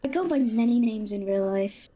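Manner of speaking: disguised voice through a changer. Acted. Anonymous guest speaking through a voice changer. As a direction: hide behind a cheap voice changer. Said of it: "I can hear the British".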